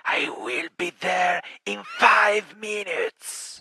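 mock threat. Playful fake assassin threat.

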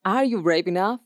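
bold, rousing ad voice; adventure park ad read. Shown as a demonstration. Park advert daring the listener, rousing. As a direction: sell the thrill, dare the listener.

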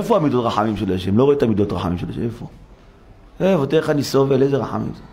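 low, fast grumbling of a sufferer; mock complainer. Preacher imitates people doubting God's mercy, low fast grumble. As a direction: mutter it like a man sure heaven forgot him. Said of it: "אנשים אומרים".

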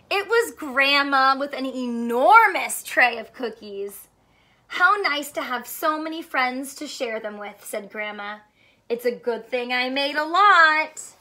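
lively picture book reading; story read to children. Acted. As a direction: read it like storytime for little ones. Reads picture book aloud.

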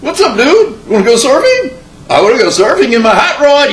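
a laid-back California surfer, sing-song; exaggerated California surfer-dude accent. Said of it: "now we're in California".

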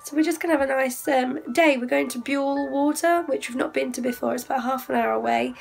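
hoarse, lost voice; speaking with a lost voice. Real, not acted. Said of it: "as you can hear, I have lost my voice".

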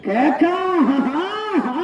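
theatrical crowd-rousing call; showman's whoop. Real, not acted. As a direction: stretch the word into laugh-like whoops. Commentator's showy cries to crowd.

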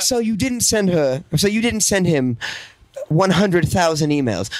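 measured, slow interviewer; Piers Morgan. Acted. Interviewer questioning the woman about emails, measured probing. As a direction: press her as a probing TV interviewer. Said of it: "she's talking to Piers Morgan. He's like".

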